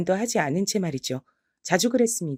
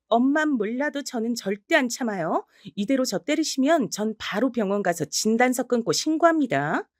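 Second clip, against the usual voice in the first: higher, resolute threat; firm defiant warning; 5 semitones higher than usual. Acted. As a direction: stand your ground, unflinching. Granddaughter warns grandmother firmly.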